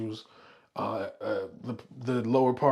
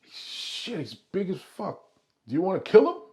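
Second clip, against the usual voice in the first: higher-pitched Italian-American wiseguy; acted Italian accent, pitched up; 6 semitones higher, 5 dB louder than usual. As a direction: slip into an Italian accent, sizing up the threat. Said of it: "I'm doing my Italian accent".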